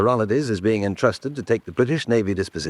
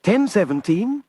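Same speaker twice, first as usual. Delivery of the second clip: dawning realization; 9 semitones higher, slower than usual. Acted. Piecing together the clue.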